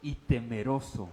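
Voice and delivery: very slow, drawn out; slow trembling reading. Shown as a demonstration. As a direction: linger on the fear. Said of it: "leído con temblor". (lectura muy lenta y temerosa)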